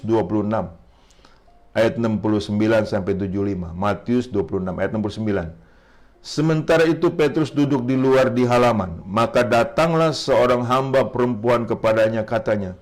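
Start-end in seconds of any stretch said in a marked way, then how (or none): 6.2-12.7 steady narration with lifted quotes; scripture reading. Acted. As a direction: read the Gospel story out to the congregation. Reads scripture aloud.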